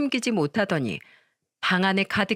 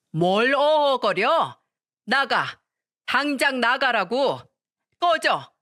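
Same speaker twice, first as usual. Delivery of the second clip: slow, higher scolding that peaks in a shout; roaring scold; 4 semitones higher, slower than usual. Acted. Mother throwing the mother-in-law out, shouting. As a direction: drive her out with a bark. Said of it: "호통을 쳤습니다".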